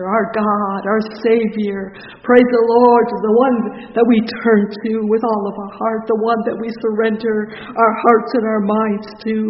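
swelling, loud pulpit praise; fervent preaching. Real, not acted. Preacher praising the Savior before the congregation, fervent. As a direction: exalt at full force. Praises God at full force.

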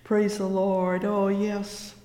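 ordinary delivery

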